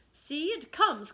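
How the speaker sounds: Curly spotting the bird overhead; excited cry. Acted. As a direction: cry out and point. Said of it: "cried Curly".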